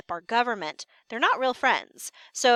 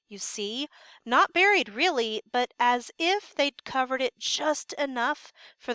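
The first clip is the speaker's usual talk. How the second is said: scared guard. Acted. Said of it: "Notice how scared the sentry is".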